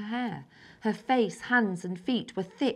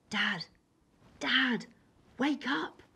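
waking Dad; 6 semitones higher, much slower than usual. A narrator's reading. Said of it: "I said in his ear".

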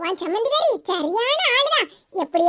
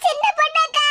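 crying; 3 semitones higher than usual. Acted. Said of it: "எதுக்கு இப்படி அழுதுகிட்டு வர?".

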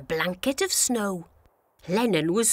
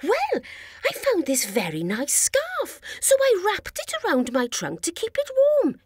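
Stomp voice; 7 semitones higher than usual. A narrator's reading. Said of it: "he said".

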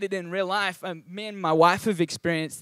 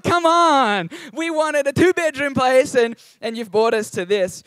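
much higher and louder, exasperated; mock indignation; 6 semitones higher, 6 dB louder than usual. Pastor retelling complaint to the house agent, mock outraged. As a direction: act out feeling ripped off by the agent. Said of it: "we just felt so ripped off".

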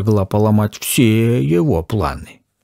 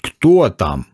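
ordinary delivery

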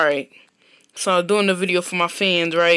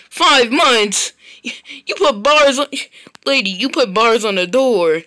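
outraged protest; 2 semitones higher, 4 dB louder than usual. Acted. Grounded kid protests loudly.

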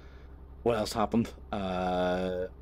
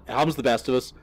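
fast, louder mocking echo; mocking repeat; 4 semitones higher, 7 dB louder, faster than usual. Mocking the homeowner's words to viewers, sarcastic echo. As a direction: throw the line back sarcastically. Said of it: "He just went".

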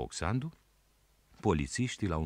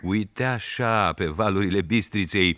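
put-on boy showing off; 4 semitones higher, 5 dB louder than usual. A narrator's reading. Boy shows the rafters' way.

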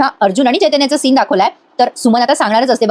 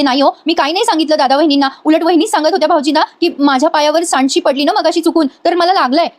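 higher-pitched anxious excuse, lightly acted; retold frightened denial; 4 semitones higher than usual. Frightened wife explains herself to threatening husband, mildly acted fear. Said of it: "Suman घाबरलेली असते खूप".

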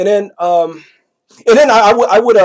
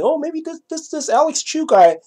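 imagined schemers; 3 semitones higher than usual. Retold or imitated. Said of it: "they started thinking".

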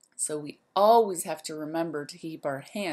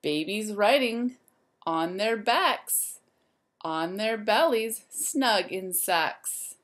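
lively, sing-song storybook voice; reading to children; 4 dB louder, slower than usual. A narrator's reading. Teacher reading a rhyme book to the class, lively and sing-song. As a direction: wake the zoo up like a bright morning call.

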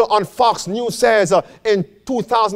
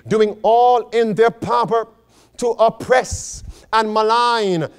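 measured sermon reading with weight on key words; slow, deliberate reading. Real, not acted. Pastor reading a warning to the church, slow and deliberate. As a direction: read it out phrase by phrase. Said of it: "Let's read now slowly".

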